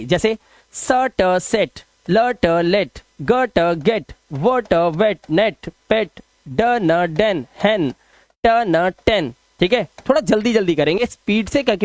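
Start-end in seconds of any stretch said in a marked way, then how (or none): 0.0-9.3 spell-then-blend reading of words like नेट, पेट; phonics drill. Shown as a demonstration. Teacher drilling short e words for pupils, phonics drill. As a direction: sound out letters, then blend with short "ay" as in सेट. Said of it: "ए करना है, ध्यान रखना".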